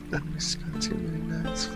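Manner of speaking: ordinary talk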